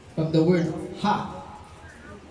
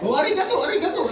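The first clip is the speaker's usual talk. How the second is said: higher playful mock Japanese, laughing; 9 semitones higher, faster than usual. Pastor joking with the congregation, mock Japanese. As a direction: chirp it like a Japanese baby. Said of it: "Hapon na baby".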